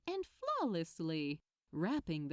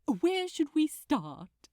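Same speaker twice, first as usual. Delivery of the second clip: prompting; 6 semitones higher, 7 dB louder than usual. A narrator's reading. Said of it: "Aziraphale prompted".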